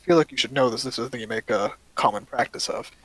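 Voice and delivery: stern elf. Acted. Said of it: "look at you sternly and go".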